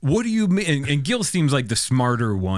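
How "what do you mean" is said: high, puzzled question; confused. Acted. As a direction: ask in disbelief. Mike baffled by the creature.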